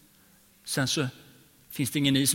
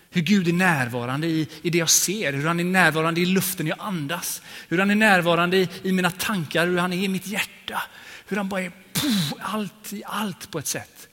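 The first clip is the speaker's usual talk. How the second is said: växande hänförelse; 4 semitones higher, 3 dB louder than usual. Real, not acted. Rising ecstatic testimony.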